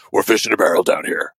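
a hint of a brooding hero; Cap's Batman voice. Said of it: "Cap's most Batman voice".

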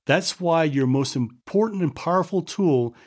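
measured book-passage read; steady narration from a book; reading aloud. Acted.

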